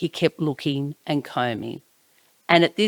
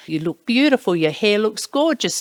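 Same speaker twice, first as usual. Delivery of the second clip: gushing praise; 5 semitones higher than usual. Retold or imitated. Aunt praising niece's new haircut.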